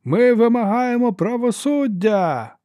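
high, slow, loud shouts; shouting. A narrator's reading. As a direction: cry out from the back. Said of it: "закричали з глибини залу".

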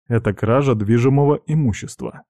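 understated, formal reproof; stern. Acted. Friend to pirate wanting the rifle, stern. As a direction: lay down the law mildly. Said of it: "строго ответил я".

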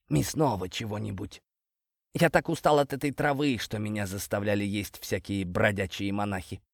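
a hint of a snake character, weary complaint; lightly voiced talking snake, grumbling. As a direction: complain softly as a fed-up snake. Narrator voices the snake Antosh. (слегка озвученный змей, жалобно)

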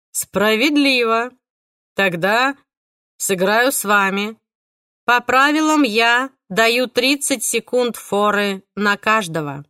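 slow, eerie killer voice; calm and menacing; creepy killer voice. Acted. Killer's lines.

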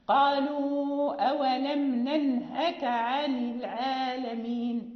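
slow recitation, both nuns clearly sounded; Quran recitation. Shown as a demonstration. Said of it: "لا بد من التحرز إلى النطق بكلا النونين".

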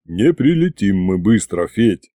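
low, tired dragon voice; sighing, weary. A narrator's reading. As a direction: break bad news with a sigh. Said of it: "вздохнул он".

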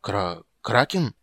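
slow, halting disbelief; stunned. Acted. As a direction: stammer out the word in shock. Stunned question about the kraken.

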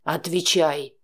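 low man's voice, a menacing order through teeth; threatening hiss. A narrator's reading. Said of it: "Олег угрожающе процедил". (низко, угрожающе процедить)

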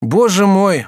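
high, loud cry of shock; student crying out in shock; exclaim. Acted. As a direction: blurt it out in alarm. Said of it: "вскрикнул Абри".

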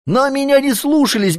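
plain reading voice

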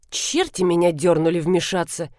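usual speaking voice

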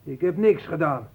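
high, loud denial, building; defensive outburst rising to a shout; loud protest. Acted. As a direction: protest your innocence with growing force. Meijer protests innocence under questioning.

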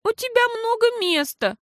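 put-on high, childlike asking; pleading little girl. A narrator's reading. Girl asks mama to sleep at Pippa's, high plea. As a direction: beg like a small child.

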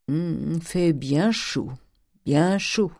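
slow, drawn-out remark between big breaths; drawing in air. Acted. Uncle stalling before bad news, breathing deeply. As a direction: stall with long, stretched words. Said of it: "en aspirant une forte partie d'air".

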